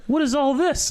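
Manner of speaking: imitating a stunned mover; mock amazement. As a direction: gape at the room in mock surprise.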